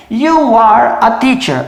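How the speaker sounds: slow full form, every word apart; slow, uncontracted teaching demo; slow and spelled out. Shown as a demonstration. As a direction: say each word separately and slowly. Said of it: "Então, por exemplo".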